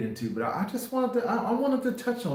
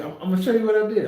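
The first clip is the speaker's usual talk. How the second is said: excited; 9 semitones higher, 6 dB louder, much faster than usual. Real, not acted. Eager to show what he did.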